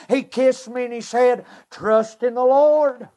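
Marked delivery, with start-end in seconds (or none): 1.7-3.1 a grandfather's choked plea, slow; tearful grandpa. Retold or imitated. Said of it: "He was crying".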